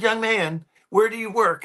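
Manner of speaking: a hint of a sweet elderly lady asking; old lady voice. Woman he helped asks his workplace, lightly voiced older lady. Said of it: "she said".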